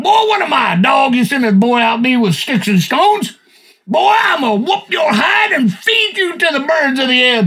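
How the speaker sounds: put-on a giant sneering at a boy, shouting; Goliath taunting. Goliath taunting young David, booming shout. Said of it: "Goliath goes to David".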